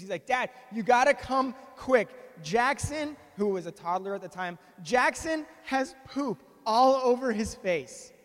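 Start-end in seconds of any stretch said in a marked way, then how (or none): 0.3-3.2 mock-urgent kid calling Dad, a little raised; upset child. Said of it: "he's crying, he's confused". 4.8-8.1 louder, drawn-out mock alarm of a kid; upset child. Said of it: "he's crying, he's confused".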